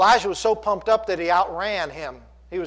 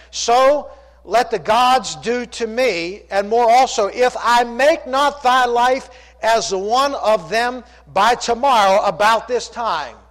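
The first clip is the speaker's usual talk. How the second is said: slow, louder, drawn-out threat; menacing threat; 5 semitones higher, 6 dB louder, slower than usual. Acted. Preacher reading Jezebel's threat to Elijah, slow and menacing. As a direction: let each word land as a vow of revenge.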